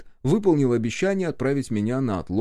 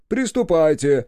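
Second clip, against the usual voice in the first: loud order; 6 semitones higher, 6 dB louder than usual. A narrator's reading. Officer orders start.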